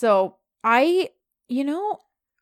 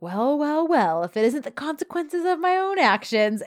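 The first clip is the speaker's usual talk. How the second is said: meme quote; 6 semitones higher than usual. Retold or imitated. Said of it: "gif that was like".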